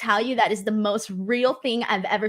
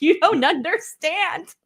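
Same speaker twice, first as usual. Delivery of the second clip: higher, slow, stretched-out pleading; drawn-out whiny plea; 6 semitones higher, slower than usual. Retold or imitated. Retelling to the host her protest to husband, slower whiny plea. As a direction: drag it out, begging him to get it. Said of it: "And I'm like".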